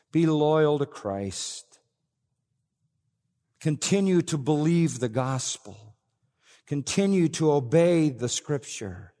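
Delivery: impassioned plea to true believers; fervent exhortation. Acted. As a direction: urge the believers with full force. Preacher voicing John's exhortation.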